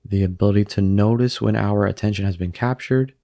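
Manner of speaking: unhurried meditation guide with long pauses; calm, even delivery, leaving room to breathe; guided meditation. Acted. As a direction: guide them gently into stillness, phrase by phrase.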